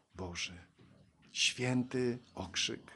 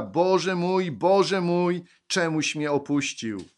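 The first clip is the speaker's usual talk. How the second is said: raised, higher call to God; retold loud cry; 7 semitones higher, 9 dB louder, slower than usual. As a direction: call out in translation, loud and insistent. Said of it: "zawołał Jezus donośnym głosem". (donośne, podniesione wołanie do Boga)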